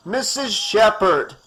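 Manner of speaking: doctor shouting after a running woman; bellowing. Acted. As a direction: bellow after her as he runs. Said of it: "bellowed Doctor Cruz".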